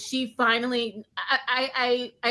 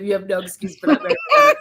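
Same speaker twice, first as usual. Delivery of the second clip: amused Sebastian quote; 6 semitones higher, 8 dB louder, much faster than usual. Retold or imitated. Quoting Sebastian with a laugh.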